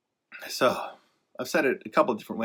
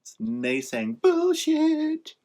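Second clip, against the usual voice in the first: mock angry; 13 semitones higher, much slower than usual. Real, not acted. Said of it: "I'm just so angry".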